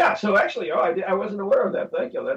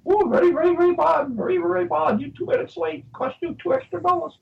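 put-on Indian accent; 11 semitones higher than usual. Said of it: "some Indian, you know".

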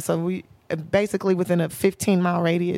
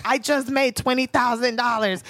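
put-on little boy voice; 4 semitones higher than usual. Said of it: "He's like".

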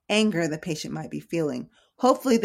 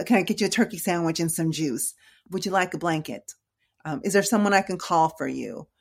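calm reassuring. Shown as a demonstration. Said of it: "I speak very calmly".

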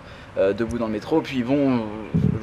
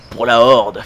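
a punchy mock war cry, a bit louder; Horde battle cry; 7 dB louder, slower than usual. Leaving the metro, to a stranger reading the book: mock battle cry. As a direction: toss it off like a playful rallying shout. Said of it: "je le regarde et je lui fais".

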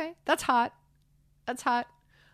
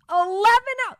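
high, loud incredulous repeat; stunned by the eleven hours; disbelief; 11 semitones higher, 6 dB louder than usual. Real, not acted. Disbelief at the eleven-hour sedation.

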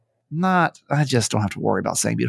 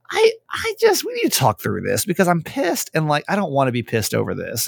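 retold frustration; 4 semitones higher than usual. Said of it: "And I'm like".

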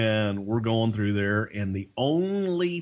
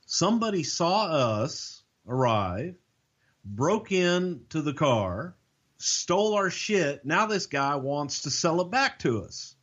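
stunned disbelief; 7 semitones higher than usual. Retold or imitated.

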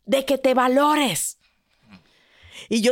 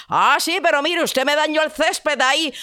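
scolding prince; 5 semitones higher, 3 dB louder than usual. Acted. Prince complains.

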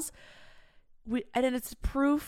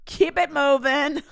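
mocking her younger self; 3 semitones higher, 5 dB louder than usual. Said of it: "I'm like".

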